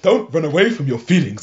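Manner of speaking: stereotyped Native American accent, retold for laughs; lightly hammed-up Native American accent; mock Native American accent. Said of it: "stereotypical, uh, Native American accent".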